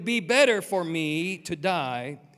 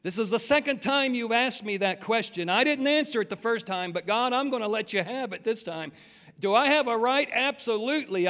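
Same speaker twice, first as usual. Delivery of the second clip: pushing back. Retold or imitated. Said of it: "Jonah pushes back this time".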